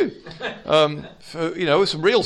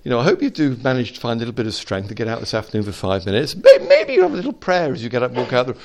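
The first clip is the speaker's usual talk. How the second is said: weak comfort; 3 dB louder than usual. Retold or imitated. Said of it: "It's not a weak".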